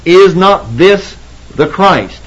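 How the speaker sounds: slow, deliberate stress landing on "Christ"; emphasis on Christ. Shown as a demonstration. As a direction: spell out "Is not this the Christ" slowly, weighting "Christ". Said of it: "You notice the emphasis?".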